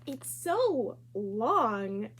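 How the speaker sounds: drawn-out mocking it's so long; slow teasing. Classmate Jo mocking Chrysanthemum's long name, slow drawl. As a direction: stretch it out to make fun.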